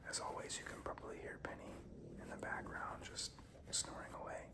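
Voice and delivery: whispering while chewing gum. Real, not acted. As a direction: talk around a piece of gum. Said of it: "Let me get another piece of gum".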